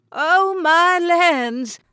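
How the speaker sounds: high, slow, drawn-out "Oh, my lands!"; a thrilled older lady's cry; delighted exclamation. Acted. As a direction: gush with surprise and delight. Jeanette gets fish gift.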